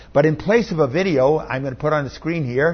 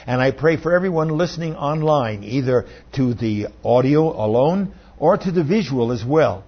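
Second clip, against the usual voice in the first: prayer. Real, not acted. Leads congregation in prayer.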